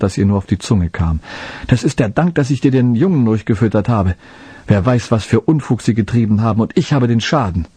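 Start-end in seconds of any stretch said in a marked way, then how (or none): 1.7-7.7 angry scolding. Acted. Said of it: "Sie schimpfte entsetzlich".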